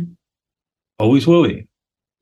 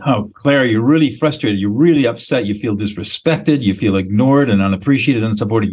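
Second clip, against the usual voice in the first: calm reflecting. Shown as a demonstration. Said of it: "I'll just do it".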